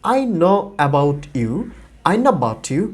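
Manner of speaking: "I know about you" blended, slow first then run together; "I know about you" as one smooth chunk; linked native phrase. Shown as a demonstration. Teacher repeats the blended native pronunciation. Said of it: "একসঙ্গে হয়ে একটা ভিন্ন উচ্চারণ দিচ্ছে".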